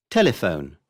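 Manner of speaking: telephone as TEL-e-phone; stress third from end. Shown as a demonstration. Teacher giving an example, telephone stressed on TEL. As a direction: stress the first syllable of telephone. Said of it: "on the third syllable from the end".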